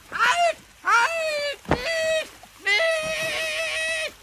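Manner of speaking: high desperate cries for help; screaming for help. Acted. Pumuckl dragged into the lake, desperate cries for help. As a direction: cry out as you are dragged away. Boat drifts off, calls for help.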